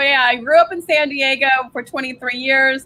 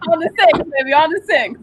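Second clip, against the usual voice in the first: joking New York comeback; playful New York accent; 3 semitones higher, faster than usual. Pretend. Guest playing along about the train, mock New York accent.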